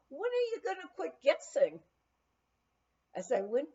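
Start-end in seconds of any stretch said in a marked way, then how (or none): 0.1-1.8 a high, louder mock yell from another room; retold yell. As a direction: call out the teasing question, half-shouted. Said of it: "I heard someone yell in response".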